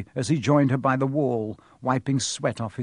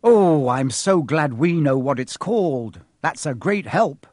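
louder sarcastic snarl; 4 dB louder than usual. Acted. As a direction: bite back with sarcasm. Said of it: "snarled Ron".

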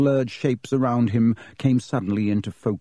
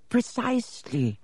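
put-on old headmaster voice; 11 semitones higher, 5 dB quieter than usual. A narrator's reading. Headmaster Dippet speaks.

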